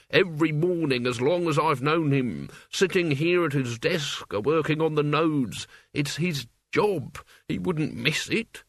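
put-on Albert, whining old man. Albert insisting his master is always here, plaintive whine. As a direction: drag the words out plaintively.

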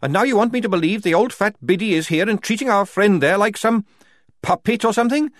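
a soldier raging against the Duchess; furious rant. A narrator's reading. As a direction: let the anger spill over.

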